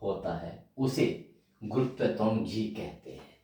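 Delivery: word by word with long pauses, for copying down; slow dictation. Shown as a demonstration. Teacher dictating to students, slow and halting. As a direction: dictate slowly so students can write. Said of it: "तो लिखिए".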